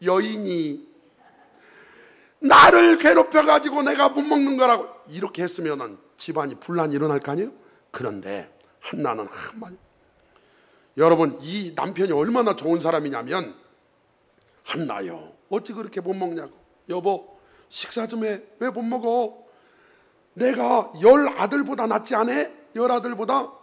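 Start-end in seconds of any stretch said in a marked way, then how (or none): 0.0-4.9 high, loud tearful outburst; a wife shouting through tears at the rival; crying complaint. Retold or imitated. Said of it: "이래야 정상 아니에요". 14.6-23.5 gentle husband. Retold or imitated. Husband voiced gently comforting wife.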